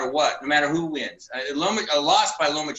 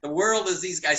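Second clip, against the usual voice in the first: holding back laughter; 2 semitones higher than usual. Real, not acted. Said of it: "I'm trying to keep a straight face".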